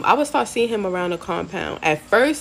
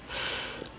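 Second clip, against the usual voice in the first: soft exhale before giving in; low-key mock sigh; imitated sigh; 16 dB quieter than usual. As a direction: act out a quiet, reluctant sigh. Retold second sigh before answering.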